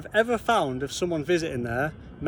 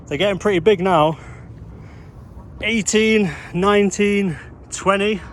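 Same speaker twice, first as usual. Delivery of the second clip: panting while climbing steep stairs; breathless, pushing up each step; out of breath climbing stairs. Real, not acted. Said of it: "I'm gonna get out of breath if I keep doing this".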